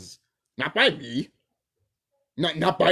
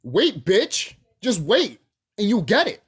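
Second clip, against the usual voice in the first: louder, cocky warning; louder taunting comeback; retort; 5 semitones higher, 6 dB louder, slower than usual. Retold or imitated. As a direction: snap it back confidently. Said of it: "I'm just like".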